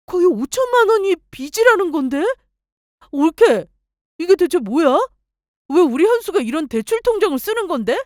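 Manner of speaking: horrified at the fifty million debt; sister-in-law shocked at her brother's debt; shocked gasp and outcry. Acted. Sister-in-law finds huge debt.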